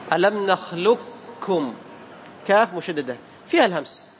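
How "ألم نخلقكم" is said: نخلقكم said slowly with a doubled كاف in place of القاف; doubled kaf. Shown as a demonstration. Teacher shows students the doubled kaf in ألم نخلقكم. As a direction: lean on a long doubled كّ in نخلقكم. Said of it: "تصير كاف مشددة".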